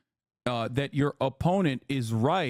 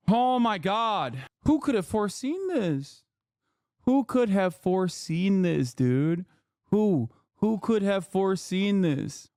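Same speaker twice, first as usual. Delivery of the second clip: mock-amazed, higher, drawn out; sarcastic disbelief; 4 semitones higher, slower than usual. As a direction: ask it with heavy sarcasm.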